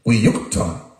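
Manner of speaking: Wiyukton with "yuk" hit hardest; stress on yuk. Shown as a demonstration. Teaching the Native word, stress on yuk. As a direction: lean on the middle syllable of Wiyukton. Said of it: "The emphasis on yuk".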